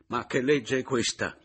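exasperated protest; angry outburst. A narrator's reading. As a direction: explode with the question. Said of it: "proruppi ancora una volta".

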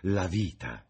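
high, animated hostess; society lady, fussing. Acted. Lady Narborough urging Dorian to marry, high and fussing. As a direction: advise him with motherly insistence.

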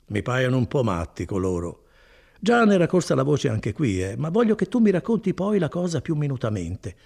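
lightly voiced kindly cousin, proud of his work; Bortolo. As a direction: warm and boastful, an easy hearty tone. Bortolo tells the news. (Bortolo rassicura Renzo, voce bonaria appena accennata)

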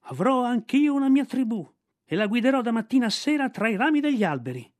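put-on high, loud boyish yell; shouting at the top of his lungs. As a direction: yell it out to grab their attention. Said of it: "urlò a squarciagola".

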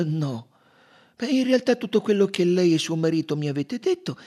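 high, polite Belgian detective voice; Poirot's voice. Acted. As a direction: lift the voice up for the dapper detective.

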